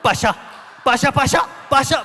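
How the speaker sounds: punchy shouted repeated bursts; mock fervent worshipper shouting in tongues; comical tongues imitation. Preacher mimics funny tongues behind him, comical shouted imitation. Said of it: "그분은 더 재밌게 방언합니다".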